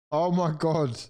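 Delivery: high-pitched cry of disbelief; dismayed outcry. Real, not acted. Fan learning about the substitute keeper, dismayed outcry. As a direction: exclaim in real dismay, voice jumping up.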